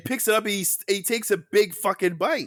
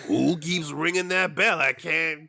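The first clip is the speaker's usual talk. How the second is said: mock New York accent. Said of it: "is it Quebecois from New York?".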